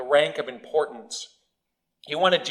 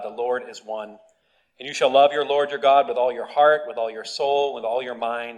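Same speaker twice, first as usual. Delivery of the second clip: scripture reading. Acted. Reads scripture aloud.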